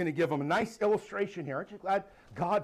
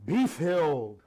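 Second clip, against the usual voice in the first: Pharisaical voice; 2 semitones lower, 5 dB louder, slower than usual. Retold or imitated. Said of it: "the Pharisaical voice".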